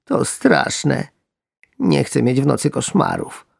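frightened frog. Acted. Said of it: "poprosiła mniejsza słabym głosem".

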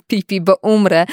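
laughing. Acted. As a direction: laugh through the words. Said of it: "usłyszała ryk śmiechu".

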